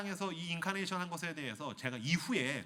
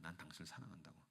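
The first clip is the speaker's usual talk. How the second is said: tender quiet confession; 11 semitones lower, 20 dB quieter, faster than usual. Acted. King confessing love to florist.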